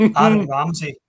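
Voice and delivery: loud, dramatic reveal of the name; big announcement. Real, not acted. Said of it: "strap yourselves in".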